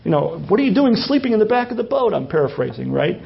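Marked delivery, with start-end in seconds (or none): 0.5-2.1 mildly panicked, quick and higher; a touch of alarm, hurried reproach. Acted. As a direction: rouse a sleeper in mock panic. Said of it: "and they're all panicked".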